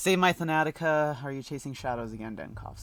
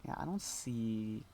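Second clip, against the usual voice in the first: slow unvoiced whisper; 11 dB quieter, slower than usual. Real, not acted. Muttering to herself while checking the settings, whispered. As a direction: breathe the words without voice.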